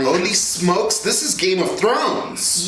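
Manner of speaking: surprised exclamation. Acted. Sudden realization, "Holy smokes.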